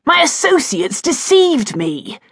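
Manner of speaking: defensive protest. A narrator's reading. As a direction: bluster your way through the excuse. Duke defends himself.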